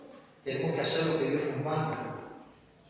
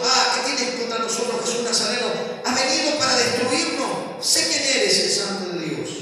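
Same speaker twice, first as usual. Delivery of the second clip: loud raised demon outcry; preacher rereading the demon's loud cry; 5 semitones higher, 4 dB louder than usual. Acted. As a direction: cry out as the unclean spirit. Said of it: "que dio a voces".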